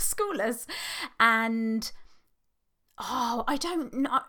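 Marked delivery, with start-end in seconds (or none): 0.1-0.7 laughing. Real, not acted. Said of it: "Is that a word?".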